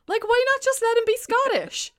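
high-pitched exasperated question. Retold or imitated. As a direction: complain in comic disbelief. Retold exasperation at actor's accent.

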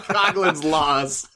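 put-on drawn-out echo in Australian accent. Co-host echoes the rules' title, mock Australian accent. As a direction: mimic an Aussie accent, slowly. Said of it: "in the Australian accent?".

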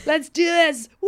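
high, loud whoop of bravado; self-hyping shout. Acted. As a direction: psych yourself up out loud, then a big whoop. Psyching himself up to serve drinks.

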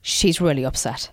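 lightly imitated husband, low and slow; husband's voice, half-attempted. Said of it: "I can't do his accent".

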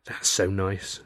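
understated, wistful softness; sad sigh. Acted. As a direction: say it gently with a sad little smile. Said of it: "sighed and gave me a sad little smile".

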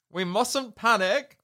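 panicked shout. Retold or imitated. Bunty losing her head as the hens scream, panicked shout. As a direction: shout "panic" as the alarm rises.

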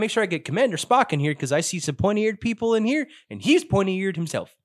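high put-on officer voice; crewman in character.

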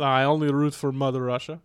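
put-on comic Russian accent. Shown as a demonstration. Guest introduces himself as the flatmate, mock Russian accent. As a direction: play a comrade in mock Russian. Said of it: "Russian accent".

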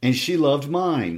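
put-on slow, high gloating boy; lightly voiced smug child, drawn out. Linton's taunt.

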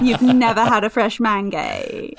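quoting posh line through laughter; laughing repeat. Retold or imitated. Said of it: "in a perfectly posh voice".

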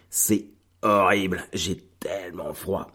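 shivering from the cold, hands frozen; freezing cold. Real, not acted. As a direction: speak through the cold. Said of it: "J'ai les mains gelées".

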